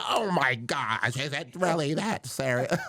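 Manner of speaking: high, drawn-out white lady voice; mock white lady. White lady on the plane reacting to his gloves, high mock voice. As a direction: put on a high, slow, scandalized white woman. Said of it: "White lady".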